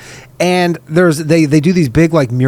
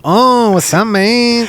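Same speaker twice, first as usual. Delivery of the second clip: higher-pitched mock Latino accent; 4 semitones higher, much slower than usual. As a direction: put on a jokey Latino accent. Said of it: "let's do a Latino accent".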